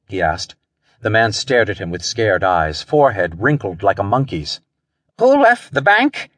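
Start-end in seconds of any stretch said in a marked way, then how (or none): 5.2-6.3 high, dazed echo of a question; wooden repetition. A narrator's reading. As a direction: repeat it high, as if stunned. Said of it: "he repeated woodenly".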